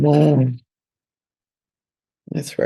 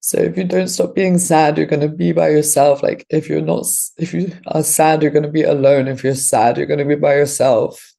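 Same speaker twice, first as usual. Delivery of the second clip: higher, lightly voiced scolding inner voice; inner critic voice; 4 semitones higher than usual. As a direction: speak as the nagging voice that warns her. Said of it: "This is what the voice is saying".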